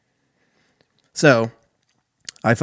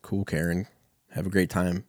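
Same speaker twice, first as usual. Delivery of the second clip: deadpan dismissal; 5 dB quieter than usual. Retold or imitated. Unimpressed reply to Karen.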